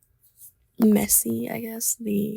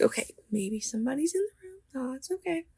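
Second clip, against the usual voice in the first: scared whisper; 3 semitones higher, 4 dB quieter than usual. Retold or imitated. Scared self-reassurance at night.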